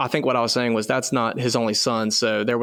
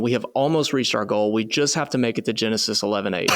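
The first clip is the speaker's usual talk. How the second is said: serious. Real, not acted. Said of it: "He said that so serious".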